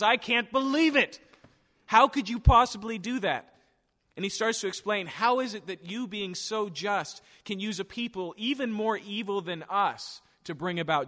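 high, loud, disbelieving cry: all on ALL and possibly; shocked protest. Acted. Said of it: "And Habakkuk goes".

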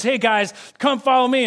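mock-heroic come-follow-me; eager call. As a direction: wave them in like their new leader. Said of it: "He goes".

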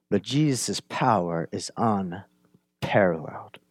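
soft, slow whispered awe; hushed whisper. Real, not acted. Preacher telling the congregation Jesus' power is unparalleled, slow awed whisper. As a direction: drop to a reverent whisper.

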